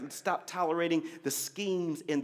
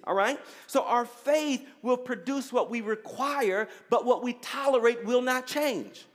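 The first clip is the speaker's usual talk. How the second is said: emphatic, higher preaching voice; 5 semitones higher than usual. Real, not acted. Preaches to the congregation.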